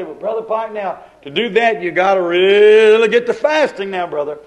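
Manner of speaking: hammed-up church scold pushing fasting; mock legalist advice. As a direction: preach fasting at him. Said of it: "Somebody would say".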